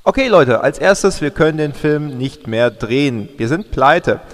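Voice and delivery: loud announcement to the whole set; calling out to crew. Acted. Director calling out to the crew, loud. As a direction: raise your voice so everyone on set hears.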